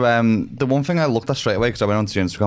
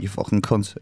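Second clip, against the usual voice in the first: Liverpool accent; 5 dB quieter than usual. Shown as a demonstration. Showing how a Liverpool accent makes the swear sound threatening, Scouse. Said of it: "if it's a Liverpool accent".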